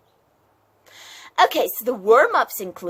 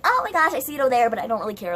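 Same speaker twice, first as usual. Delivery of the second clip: dismissive mimicry; 3 semitones higher, much faster than usual. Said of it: "They're like".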